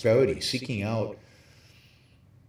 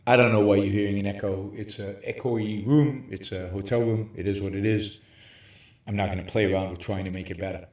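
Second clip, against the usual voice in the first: cave echo; 2 semitones lower than usual. Real, not acted. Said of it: "It is a spooky cave voice".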